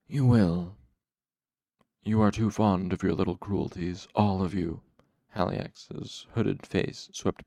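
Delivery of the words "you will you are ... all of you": cool, commanding rebuke, firm; cool dark master. Acted. Haliax rebukes his cruel followers, coolly commanding. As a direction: scold them with controlled authority.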